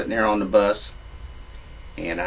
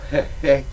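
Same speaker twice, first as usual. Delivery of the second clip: short, put-on nervous chuckle; imitated awkward little laugh; 4 semitones higher than usual. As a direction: laugh it off uneasily. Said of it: "nervous laughter".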